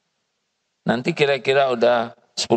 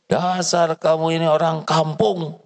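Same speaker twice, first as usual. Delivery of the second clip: insulting the maid with rising anger; angrier scolding; 3 semitones higher than usual. Acted. Angry employer insulting the maid, more heated. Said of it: "Tambah emosi".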